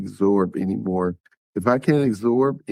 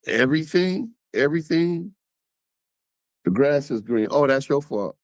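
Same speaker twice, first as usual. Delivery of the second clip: mocking exaggeration; 5 semitones higher than usual. Mocking abuser blaming everything.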